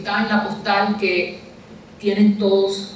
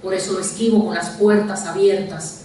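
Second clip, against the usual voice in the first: measured poem reading, pausing after each verse; deliberate literary delivery with falling line endings; poetry recitation. Acted. Recites own poem aloud.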